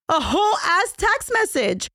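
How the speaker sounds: high, incredulous outburst; can you believe it, up high. Real, not acted. Shock at kidnapper's text.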